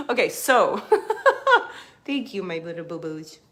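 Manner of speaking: giggling through thanks to the dog; real laughter, speaking to the little dog; laughing. Real, not acted.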